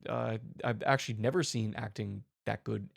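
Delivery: calm, understated movie star praise; lightly voiced calm actor praising a newcomer; loose, half-hearted celebrity impression; Robert Downey Junior. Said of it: "R D J walks in there calmly".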